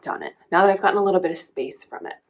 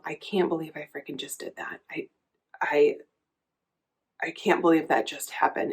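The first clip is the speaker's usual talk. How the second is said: stunned inner thought; 3 semitones lower, 5 dB quieter than usual. Retold or imitated. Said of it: "I'm thinking to myself".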